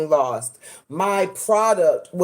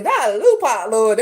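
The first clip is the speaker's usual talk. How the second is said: mock exasperated groan. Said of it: "That's exactly how I said it".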